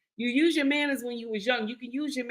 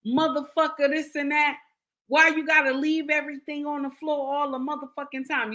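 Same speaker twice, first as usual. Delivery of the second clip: higher, harsh angry scolding; nasty yelling; 6 semitones higher than usual. Shown as a demonstration. Wife screaming at husband about clothes on floor, furious yell. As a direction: tear into him, furious. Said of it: "saying it nasty".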